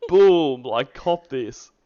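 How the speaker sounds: mock-mad, punchy 'boom'; imitated mad caller. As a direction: hit 'boom' hard, imitating an angry caller. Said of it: "goes straight into being mad".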